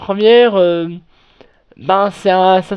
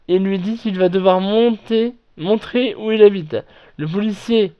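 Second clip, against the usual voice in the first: normal talking voice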